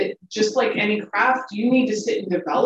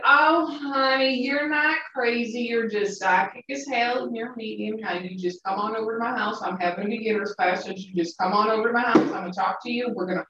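calm, polite Southern lady, softly voiced; sweet, hushed Southern accent, imitating a mentor; cute Southern accent; 5 dB quieter than usual. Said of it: "most calm and polite voice, in, in the most cute Southern accent".

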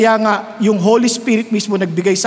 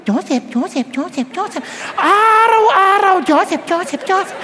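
seductive calling; 7 semitones higher than usual. Acted. Wife calling Joseph repeatedly.

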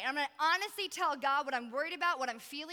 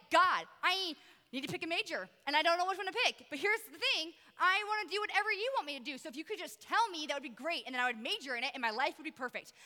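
worked-up retelling of an angry prayer; retold frustrated yelling; 3 semitones higher than usual. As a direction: vent at God in exasperation, then let it settle. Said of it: "I am yelling. I am angry".

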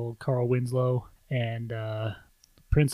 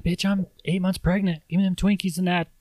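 higher, bossy, lightly put-on wife voice; demanding pregnant wife; 6 semitones higher than usual. Pregnant wife telling her husband to hand over the Twinkies, mock sassy.

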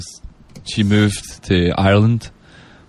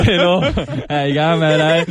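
higher, playful Australian patter; put-on Aussie accent; 4 semitones higher than usual. Guest showing off for the hosts, put-on Aussie accent. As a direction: banter like an Aussie, pitched up. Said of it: "Mate, you can do it".

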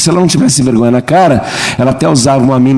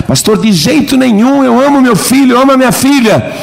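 impassioned protest; 11 semitones higher than usual. Acted. Parent protesting to the pastor that they love their child, high passionate plea. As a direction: protest it with all your heart.

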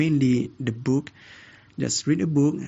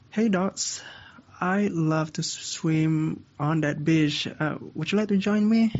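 storybook cat; 4 semitones higher than usual. Acted. Cat inviting the dog to swim, playful character voice. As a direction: voice a friendly cat, pitched up. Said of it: "the cat says to the dog".

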